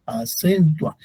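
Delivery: "Acentua" spelled out evenly by syllable; a-cen-tua with no strong beat; unstressed syllables. Shown as a demonstration. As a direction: keep "Acentua" level and unaccented. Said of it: "No tiene un sonido fuerte".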